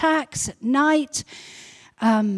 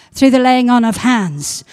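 loud proclamation; 5 dB louder than usual. Real, not acted. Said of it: "repeated proclamation".

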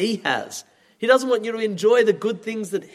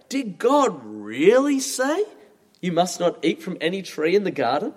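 sneering snake. Acted. Preacher voicing the snake's sneer to the congregation, sneering. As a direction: sneer it like a sly serpent. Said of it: "you can hear the tone, the sneer in the snake's voice".

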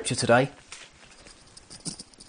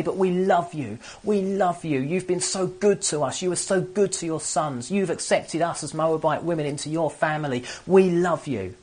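higher, earnest plea of devoted daughters; loving daughters-in-law; 4 semitones higher than usual. Retold or imitated. Daughters-in-law telling the mother they love her, pleading higher. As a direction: beg her tenderly to let them come. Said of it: "And they say".

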